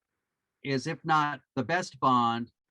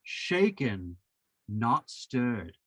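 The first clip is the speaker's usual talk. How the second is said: lightly voiced suave spy, pitched lower; a hint of Bond ordering his martini, lower; Pierce Brosnan Bond line; 5 semitones lower, much slower than usual. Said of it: "he's gonna say".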